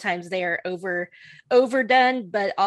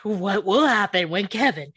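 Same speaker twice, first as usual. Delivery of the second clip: mock announcer teaser.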